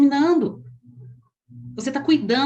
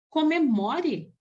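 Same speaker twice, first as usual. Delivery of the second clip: slow encouragement; 4 semitones higher, much slower than usual. Shown as a demonstration. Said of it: "speaker shows the delivery".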